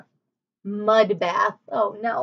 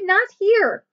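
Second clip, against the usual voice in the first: high, louder repeated warning; shouting again; 9 semitones higher, 3 dB louder than usual. Acted. Annie shouting again at the wildebeest, high and louder. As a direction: repeat "not here" high and loud, a touch less force. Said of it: "she shouted".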